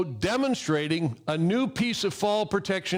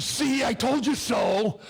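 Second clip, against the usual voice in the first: mock scolding wife; 3 semitones higher, slower than usual. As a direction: rub it in like a smug wife. Wife scolding after his fall.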